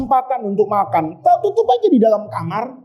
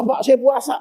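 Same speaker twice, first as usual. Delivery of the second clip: pleading shout; 3 semitones higher than usual. Retold or imitated. Offender pleading to police.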